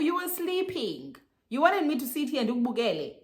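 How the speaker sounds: high-pitched mock protest; indignant comeback. Girlfriend defending herself to boyfriend, indignant. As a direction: protest it high, in a retold quarrel. Acted comeback in a retold quarrel.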